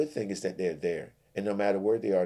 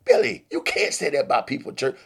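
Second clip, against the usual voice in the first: higher, louder rebuke; shocked scolding; 8 semitones higher, 9 dB louder than usual. Acted. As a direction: stop him in shock. Friend scolds Billy.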